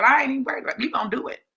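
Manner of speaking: lightly sassy and unbothered. Acted. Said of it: "he gets sassy right back".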